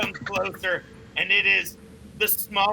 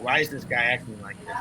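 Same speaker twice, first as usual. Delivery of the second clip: puzzled NPC; 8 semitones lower, faster than usual. Acted. GM voices confused NPC.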